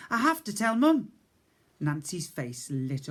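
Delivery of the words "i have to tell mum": higher, louder insistence; urgent boy. Acted. Boy insists to the cook, urgent. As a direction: press the point.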